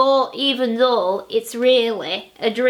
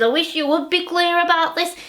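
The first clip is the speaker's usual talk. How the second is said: higher, fast mocking husband; 5 semitones higher, faster than usual. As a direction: toss her phrase back quickly. Husband mocking her phrase.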